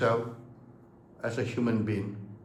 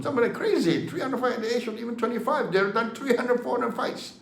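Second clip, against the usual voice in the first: talking through a laugh, higher; 7 semitones higher than usual. Real, not acted. Telling viewers about Thai fighters, laughing. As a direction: laugh in disbelief at the numbers.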